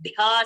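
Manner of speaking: "dhya" with a strong puff of breath and long vowel; aspirated dhya. Shown as a demonstration.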